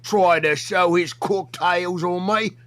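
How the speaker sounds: put-on rough Australian accent for the bit; put-on Aussie accent. Yo Mama calling out Buff Weeb in a put-on Aussie accent. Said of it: "Why are you Australian?".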